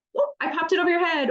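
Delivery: put-on high, quick sing-out to a child; playful and silly. Parent dressing a small child, playful and silly. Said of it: "getting dressed a fun and silly thing".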